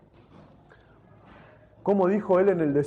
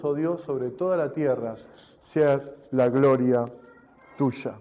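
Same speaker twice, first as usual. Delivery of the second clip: measured, solemn reading; scripture reading. Acted. Preacher reading the psalm to the church, solemn. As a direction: read the psalm with reverence.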